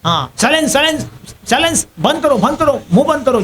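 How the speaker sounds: retold shouting. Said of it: "माता जी बहुत चिल्लाए हो".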